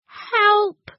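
high, squeaky monster cry for help; grotesque monster voice. A narrator's reading. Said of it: "he said".

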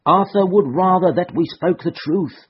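steady, resolute reply; calmly standing her ground; firm answer. A narrator's reading. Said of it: "the girl answered firmly".

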